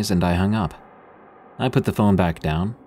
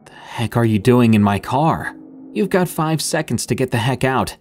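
yelling; 4 semitones higher than usual. Acted. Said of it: "I yelled as loudly as possible".

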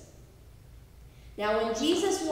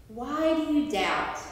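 a gentle, searching question with no reproach; gently questioning. Shown as a demonstration. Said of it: "Not scolding him, but questioning him".

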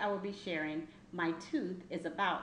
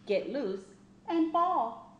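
much higher and louder on fall; dramatic fall; 8 semitones higher, 6 dB louder than usual. A narrator's reading. Child reading, making the teeth's fall dramatic. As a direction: swoop up big on the last word.

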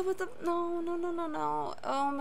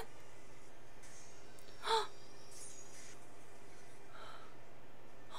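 very soft breathy gasp; real gasp; 4 semitones higher, 18 dB quieter than usual. Real, not acted. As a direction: take a quiet, startled breath. Reacting to the show.

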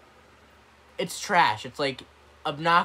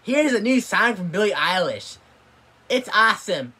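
mock radio DJ; 5 semitones higher, 7 dB louder than usual. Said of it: "they think".

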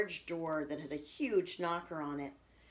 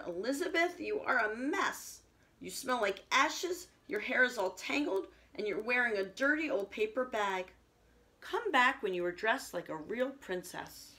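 snobby prince; 5 semitones higher than usual. Acted.

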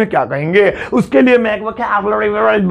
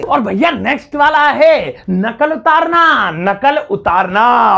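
announcing the next word; 2 semitones higher, slower than usual. Shown as a demonstration. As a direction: present the next word like a show host. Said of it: "announces next word".

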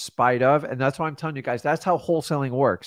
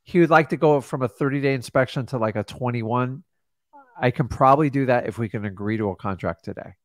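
calm reassuring. Shown as a demonstration. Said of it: "You just filter what they say and say".

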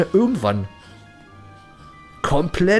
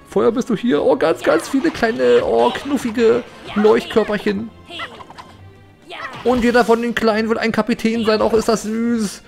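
cooing; 5 semitones higher than usual. Real, not acted. Cooing over cute lights.

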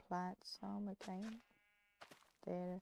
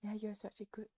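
creepy cooing; 3 semitones higher than usual. Acted. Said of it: "you sound so creepy".

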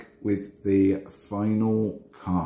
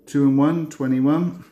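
bingo caller; 4 semitones higher, 3 dB louder than usual. Acted. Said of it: "I start doing my bingo calls".

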